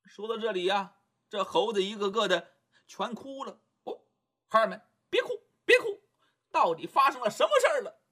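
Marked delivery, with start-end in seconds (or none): 3.8-8.0 high, quick comforting call; Monkey King hushing his crying monkeys; Monkey King consoling. Acted. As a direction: soothe them, then ask urgently.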